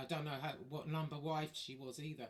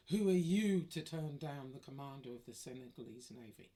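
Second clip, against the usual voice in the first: furious dad; 4 dB louder than usual. Retold or imitated. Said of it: "My dad was furious".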